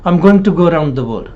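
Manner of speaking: "around" said with a narrowed "ou", like "a-rund"; mouth not opened. Shown as a demonstration. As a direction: keep the mouth fairly closed on "around". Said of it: "they don't open their mouth properly".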